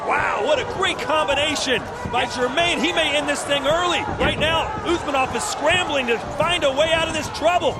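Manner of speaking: building to a high, loud shout; excited play-by-play. Real, not acted. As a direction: yell the stoppage call. Commentator calls the knockout live.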